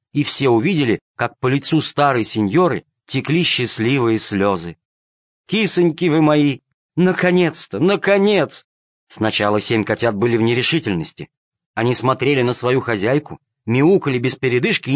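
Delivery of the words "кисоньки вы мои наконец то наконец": overjoyed. A narrator's reading. Aunt overjoyed, crying happy tears.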